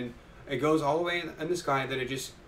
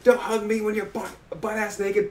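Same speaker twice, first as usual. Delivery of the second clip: higher, louder annoyed protest; mock annoyed yell; 8 semitones higher, 7 dB louder than usual. Senku shoving off a naked hugger, mock annoyed. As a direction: playfully shove the words out.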